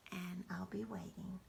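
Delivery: hushed message to grandchildren; whispered goodbye. Real, not acted. Grandmother whispering goodnight to the grandchildren.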